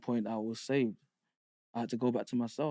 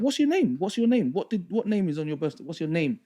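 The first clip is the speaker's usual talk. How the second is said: pressing, loud; 7 semitones higher, 7 dB louder than usual. Retold or imitated. Pressing, then inmate's loud retort.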